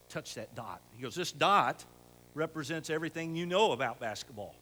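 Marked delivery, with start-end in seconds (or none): 1.1-4.5 louder, punching the opening words; coach's proclamation. Retold or imitated. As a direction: announce it like a coach to his players. Coach's speech to the boys.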